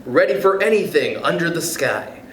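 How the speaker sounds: lilting, rhythmic picture-book read; reading aloud to kids. Acted. Reading Oh, the Places You'll Go to listeners, rhythmic storybook voice. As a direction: bounce through the rhymes like a bedtime story.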